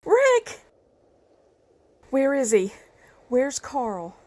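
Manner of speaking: high, loud, panicked cries; shouted name, then urgent, frightened questions; frantic shouting. Acted. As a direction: call out desperately for your child. Frantic mother looking for wounded son.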